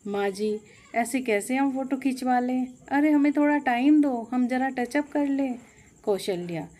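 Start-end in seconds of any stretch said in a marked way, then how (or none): 0.1-5.6 angry complaint. Acted. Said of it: "Poonam गुस्से में कहती है".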